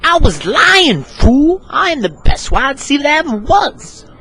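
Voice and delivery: high, fast, whining complaint; a pushy receiver nagging his quarterback, high and quick; whiny high teammate. Acted. Receiver complaining to Neil about no passes, in a high whine.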